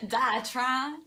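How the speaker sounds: giggly imitation of a Southern drawl; laughing mock-Southern question; mocking Southern accent. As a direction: echo it back in a teasing Southern twang. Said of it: "Are you making fun of the way I talk".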